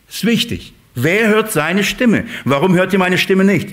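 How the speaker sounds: usual speaking voice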